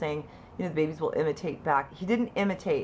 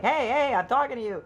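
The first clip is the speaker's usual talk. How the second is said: raised, higher re-enacted call; mock parental hailing, pitched up; calling for attention; 7 semitones higher, 4 dB louder than usual. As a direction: call out to a child who is ignoring you. Parent calling an unresponsive toddler.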